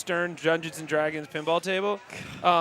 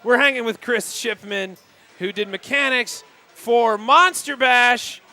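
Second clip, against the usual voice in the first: announcer voice; 5 semitones higher, 5 dB louder, slower than usual. Acted. Announcing the guest loudly.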